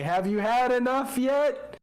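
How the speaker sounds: lightly voiced booming taunt; booming magic voice. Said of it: "cantrip thaumaturgy my own voice, uh, loud enough".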